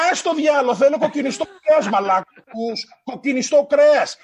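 mock fed-up craving. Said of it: "you go".

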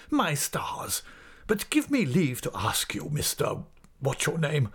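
high, affected voice of an indignant headmaster; scornful schoolmaster. Acted. Headmaster confronts his assistant, scornful and indignant. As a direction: play the offended, belittling master.

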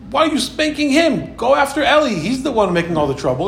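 put-on high, pleading child protesting to her father; a sister pleading to her father, high and insistent; sister's protest.

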